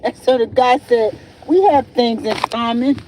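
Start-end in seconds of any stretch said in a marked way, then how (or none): 1.5-3.0 imitating a caller's fake African accent; lightly mock an African accent, amused. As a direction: retell it in a put-on African accent. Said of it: "He sound like a fake African, you know, accent".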